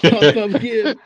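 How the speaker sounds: high loud rhythmic chant, pumping twice; woodpecker laugh rhythm. Shown as a demonstration. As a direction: beat out the rhythm: pump, pump, give. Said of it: "you died at the end".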